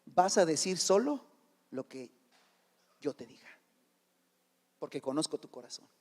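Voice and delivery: low, hushed warning; quiet, deep-pitched caution from an angel; angel's warning. Retold or imitated. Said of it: "El ángel le advirtió".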